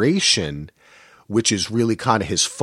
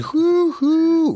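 very high hooting train whistle; train whistle imitation. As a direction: whistle like an old steam train.

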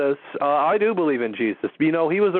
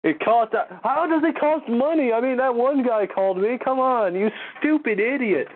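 pitched way up, incredulous and annoyed; exasperated rant; 6 semitones higher than usual. Real, not acted. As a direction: rant at the chat in disbelief. Ranting at callers' false claim.

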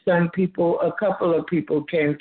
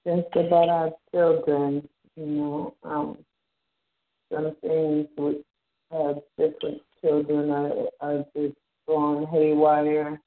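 muffled, hollow phone line; like talking from inside a tunnel; sounds like in a tunnel. Real, not acted. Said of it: "you sound like you're in a tunnel".

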